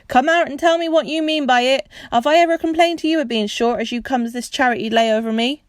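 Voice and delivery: high, loud angry shout; angry demand. Acted. Angry host shouting at hiding children, loud. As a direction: order them out furiously. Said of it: "said Perks".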